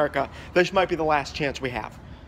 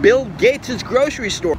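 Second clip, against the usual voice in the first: loud, slow, higher proclamation; grand announcement; 6 semitones higher, 8 dB louder, slower than usual. Pretend. Candidate announces the grocery store grandly. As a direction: unveil it like a landmark.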